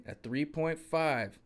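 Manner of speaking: A three point five said slowly, each word set apart; slow it right down so it sinks in; slow, spelled-out emphasis. Shown as a demonstration. Repeating the jack size for a distracted viewer, slow and deliberate. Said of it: "Are you listening?".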